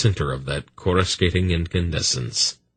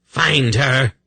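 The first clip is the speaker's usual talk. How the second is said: high, fierce order; screamed command; 7 semitones higher, 4 dB louder than usual. A narrator's reading. Kabat commands her enslaved fiend, screaming. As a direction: scream it after a servant as an order. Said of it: "Kabat screamed after her enslaved fiend".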